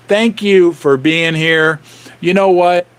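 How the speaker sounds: strained, worn-out voice; losing voice. Real, not acted. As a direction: speak with a tired, failing voice. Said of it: "I'm losing my voice".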